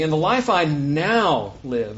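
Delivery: slow down and lean on "now"; "now" drawn out as the key word; stress on now. Shown as a demonstration. Preacher reading Galatians to the congregation, stress on "now". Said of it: "I'm emphasizing that word now".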